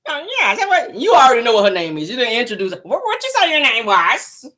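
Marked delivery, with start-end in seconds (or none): 2.8-4.5 slow, drawn-out higher mock voice; Simon's slow talk. Mocking Simon asking her name again, slow. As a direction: drag the question out lazily. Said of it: "that's how he sound".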